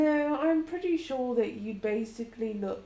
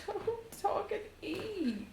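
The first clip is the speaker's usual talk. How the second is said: scolding; 9 semitones higher, 7 dB quieter, slower than usual. Acted. Scolding partner for eating while talking.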